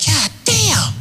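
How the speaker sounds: can't believe your eyes; high amazed exclaim. Retold or imitated. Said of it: "I said".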